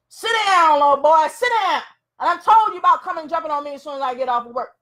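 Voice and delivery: irritated father. Acted. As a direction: tell the kid off sharply. Father snapping at his son.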